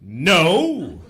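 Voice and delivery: a hint of a heroic refusal; lightly voiced superhero, firm no. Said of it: "a superhero being propositioned by a hooker".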